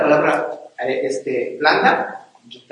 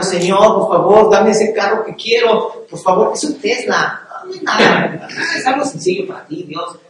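mock whiny begging prayer, pitched up; pleading prayer; 4 semitones higher than usual. Husband begging God for a car, whiny mock plea. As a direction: beg God like a spoiled child. Man praying for a Tesla.

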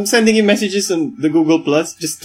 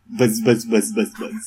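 soft mock buzzing; 5 semitones lower, 7 dB quieter than usual. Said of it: "Random noises".

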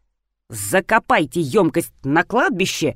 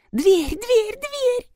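high, rising wail on each word; much slower than usual. A narrator's reading. Nadezhda Mikhailovna wails about the open door, very high. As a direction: lament in alarm. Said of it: "запричитала Надежда Михайловна".

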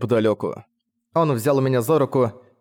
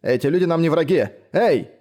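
urgent pleading; 5 semitones higher than usual. A narrator's reading. Quen pleading with Chang.

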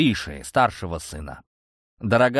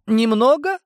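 high, loud mocking question; mild mocking smirk; 12 semitones higher, 5 dB louder than usual. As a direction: scoff at the word. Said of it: "усмехнулся".

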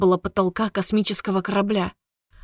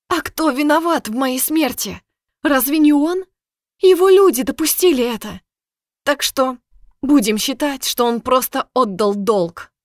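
higher, louder angry outburst; bitter accusation; 5 semitones higher, 3 dB louder than usual. Acted. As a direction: hurl the blame at him. Girl accuses the ruler.

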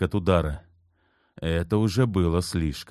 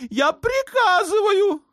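much higher, slow, with a cry in the voice; sultan's tearful order; 5 dB louder, slower than usual. A narrator's reading. Sultan ordering his mother, slow and tearful. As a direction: squeeze out the order like a tantrum.

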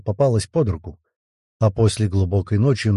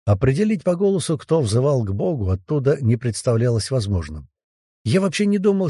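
plain reading voice

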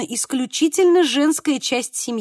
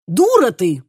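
louder, sharp indignant retort; indignant outburst; 3 semitones lower, 5 dB louder, slower than usual. Acted. Teresa indignant at her sister, snapping. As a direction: slap her down with it. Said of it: "возмутилась Тереза".

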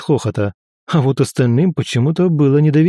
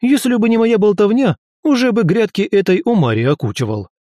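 boastful hamster god; 8 semitones higher than usual. A narrator's reading. Hamki brags indignantly.

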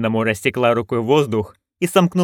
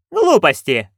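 higher, louder dismissive scoff; scornful snort; 5 semitones higher, 4 dB louder than usual. Acted. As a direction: brush it off with contempt. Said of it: "фыркнула герцогиня".

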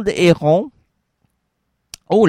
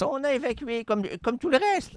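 ghost voice; 6 semitones higher, 9 dB quieter than usual. Acted. Spirit echoes.

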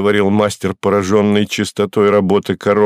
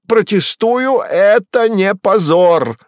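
much higher, louder yelling cat voice; 10 semitones higher, 3 dB louder, slower than usual. Acted. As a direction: bawl the protest like an indignant cat. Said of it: "орал кот".

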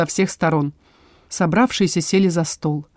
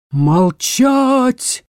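sharp, higher bark to the whole tavern; barked order; 5 semitones higher than usual. Acted. Dryad silencing the quarreling vampires, barked order. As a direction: snap it out to silence the room. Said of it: "рявкнула на всю таверну".

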